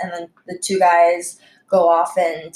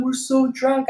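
higher mock drunk excuse; making excuses; 6 semitones higher than usual. Drunk customers excusing themselves to waitress, mocked. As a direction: imitate a feeble excuse, pitched up. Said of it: "the excuse that they were trying to make".

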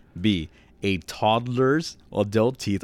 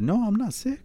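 imitated coworker; 13 semitones higher than usual. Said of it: "I'm looking at him".

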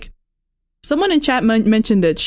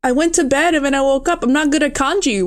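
higher, hurried imitated excuse; mock defensive; 4 semitones higher than usual. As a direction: play a lightly flustered housemate. Voices Pepe's flustered excuse.

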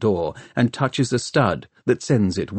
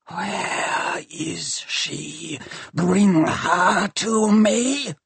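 dark machine voice; 10 semitones higher, much slower than usual. Acted. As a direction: demand it like a rusty machine. Shrike's voice held.

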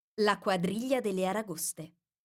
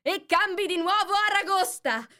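loud, very high Gryphon shout; full-voiced shrieking; 13 semitones higher, 6 dB louder than usual. A narrator's reading. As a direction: shout it at the top of your voice. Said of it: "strepitò il grifone con quanta voce aveva". (strepito acuto a gran voce)

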